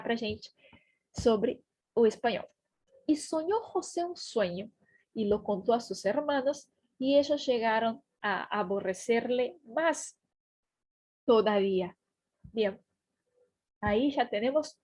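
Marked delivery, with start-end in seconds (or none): 3.1-12.0 measured Spanish verse reading; scripture read-aloud. Acted. Teacher reading the verse to learners, measured narration. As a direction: read the verse phrase by phrase, with pauses.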